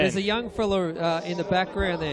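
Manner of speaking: loud call from the commentary box; calling down from tower. Real, not acted. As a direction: call out down to the track. Calling down to trackside reporter.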